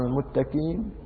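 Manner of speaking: المتكين with a front k, "muttakeen"; a clear k where ق belongs in المتكين; qaf as kaf. Shown as a demonstration. Repeats the kaf mispronunciation.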